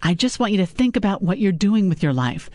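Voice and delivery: a hint of a scolding mother; mother lecturing her daughter about men.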